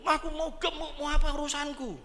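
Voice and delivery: mock defiant voice. Preacher voicing a touchy person, high mocking defiance.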